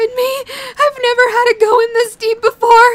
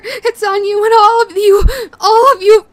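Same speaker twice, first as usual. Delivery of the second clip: angry outburst. Acted.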